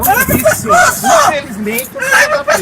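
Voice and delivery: grito agudo e forte; gritando. Real, not acted. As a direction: grite a ordem de prisão. Policial prendendo mulher resistente. (grito de policial na prisão)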